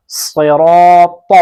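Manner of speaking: slow, thick صراط with a heavy ص, the mouth full. Shown as a demonstration. Quran teacher showing students the heavy ص, slow and full-mouthed. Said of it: "اب ہم صاد کو پڑھتے ہیں".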